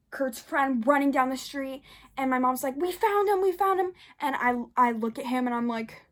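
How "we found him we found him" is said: high-pitched imitation of relieved calling; mom calling out. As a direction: announce it like a worked-up mother.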